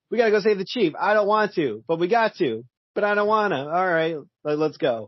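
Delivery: lightly voiced grudging teammate; hint of a sulky superhero; mock reluctant hero. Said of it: "where it's just like".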